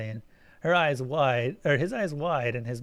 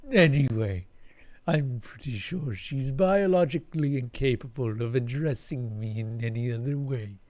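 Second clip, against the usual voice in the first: alien creature voice; 3 semitones lower than usual. Acted. Eric speaks to Alan.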